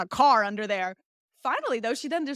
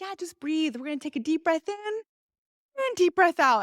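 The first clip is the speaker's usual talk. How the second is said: lightly voiced doctor guiding breaths, pitched higher; coaching doctor; 5 semitones higher than usual. Imitates second doctor coaching breathing.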